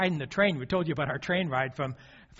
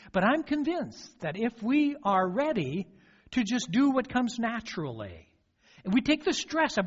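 rising, higher exhortation to the congregation; preaching; 7 semitones higher than usual. Acted. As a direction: press the point home from the pulpit.

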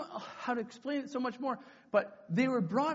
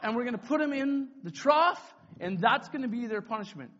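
loud, raised proclamation; announcing to crowd; 4 semitones higher, 7 dB louder than usual. Retold or imitated. Leader sentencing tied kids before camp, loud announcement. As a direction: pronounce the punishment out to a crowd.

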